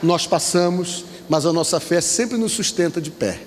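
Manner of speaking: preacher's drawn-out, rising and falling exhortation; pregação exortativa. Real, not acted. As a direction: urge the congregation, stretching key words. (pregação enfática, palavras alongadas)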